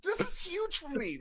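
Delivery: high, loud mock crying shout; panicked wail. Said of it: "I was like".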